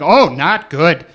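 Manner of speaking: loud, slow, acted drunk; drunken despair. Drunk driver answering a friend at a party, loudly miserable. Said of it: "and I drank so much".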